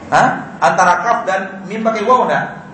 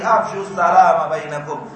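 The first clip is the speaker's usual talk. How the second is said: slow "Afshus salama bainakum"; slow Arabic quote. Shown as a demonstration. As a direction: recite the hadith calmly. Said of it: "dikatakan Nabi". (kutipan hadis pelan)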